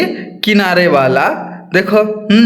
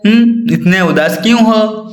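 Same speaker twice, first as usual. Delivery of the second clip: concerned asking; 4 semitones higher than usual. Shown as a demonstration. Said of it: "अगर कोई दुख में होगा तो क्या बोलोगे आप?".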